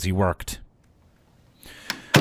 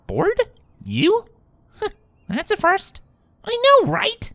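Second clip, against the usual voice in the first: surprised; slower than usual. Acted. Twilight surprised, Rainbow agreeing.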